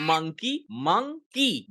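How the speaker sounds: monkey said slowly, split as "mon-key"; broken into syllables. Shown as a demonstration. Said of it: "they always focus on syllable". (monkey को अक्षरों में तोड़कर धीरे बोलें)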